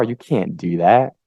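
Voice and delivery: slow, discouraging put-down; skeptic voice. Acted. Skeptic voice talking a person out of it, discouraging. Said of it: "it's just like a wet blanket".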